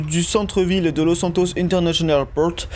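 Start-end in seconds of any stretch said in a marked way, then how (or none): 1.6-2.7 light English accent on place names. Shown as a demonstration. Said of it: "avec l'accent anglais comme toujours".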